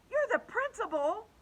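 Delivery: put-on high, loud girl's protest; insistent child. A narrator's reading. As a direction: press the point like an upset kid. Upset girl appeals to principal.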